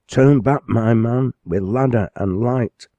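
high, loud call while running. Acted. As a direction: shout ahead to the lamplighter. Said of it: "he called out without stopping".

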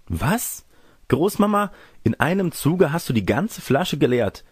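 put-on high-pitched girlish amazement; astonished girl. Girl sees grandmother emptied the bottle, high astonished voice. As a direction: exclaim in a high young girl's voice, amazed.

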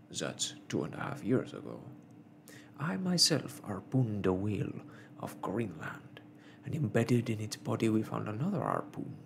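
lightly voiced Canadian harpooner, dismissive; a hint of a contradicting sailor; sceptical whaler. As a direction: argue the point as a seasoned whaler. Ned Land argues with professor.

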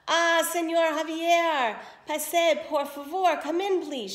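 slow, high and loud sugary welcome; fawning stepmother. Acted. Stepmother fawns over the prince at the door, sugary and slow. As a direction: gush over the rich guest.

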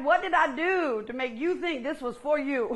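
laughing through a mock-baffled question; amused, teasing disbelief; laughing mock bafflement. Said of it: "and you're like".

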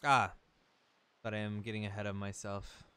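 lightly acted grand pronouncement; solemn talking boat. Talking boat sends Link to sea, mildly grand. Reads the boat's lines aloud.

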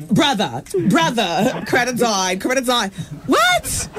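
mock queenie teen delivering sad news; Josh. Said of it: "If he delivered the message like this".

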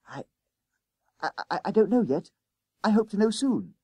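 high, stammering hesitation; flustered schoolboy. Acted. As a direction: stumble over the first word, pitched high. Boy cornered by conductor's question.

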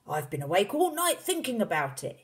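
high, eager father voice; excited cry. A narrator's reading. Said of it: "he cried".

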